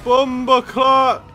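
high, loud, slow furious cursing; angry yell. Real, not acted. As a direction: rage at the other driver. Raging at other driver.

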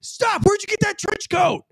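sudden high shouted stop, then a casual question; mock commanding cop. Cop jokingly stops a man to ask about his coat. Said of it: "What I would say is".

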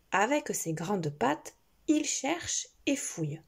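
gentle storybook narration; reading to a toddler. A narrator's reading. Reading a picture book to a child.

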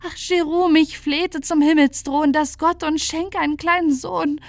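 anguished high woman's voice; tearful pleading. A narrator's reading. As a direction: implore him as if through tears. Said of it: "weinte Ursula sehr".

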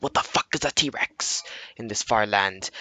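lightly affected medieval role-player; medieval LARP voice. Retold or imitated. Noob larper answers another player, affected medieval voice. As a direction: ask it as a puzzled larper. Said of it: "larping voice".

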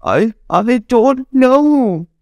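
put-on halting, hesitant little girl. Girl answers Tony, timid and hesitant. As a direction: stammer it out timidly. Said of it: "She says".

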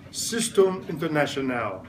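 Système International said the French way, sis-TEM an-ter-na-syo-NAL; French pronunciation. Shown as a demonstration. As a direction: model the French words for the class. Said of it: "Say it".

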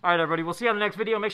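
muffled behind neoprene mask; speaking with mouth covered; through a face mask. Real, not acted. Seen 3: Neoprene filter mask covers mouth and nose through all labelled frames.

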